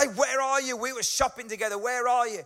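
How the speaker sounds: acting out a slightly annoyed wife calling her husband; mildly annoyed. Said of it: "she's a little bit annoyed".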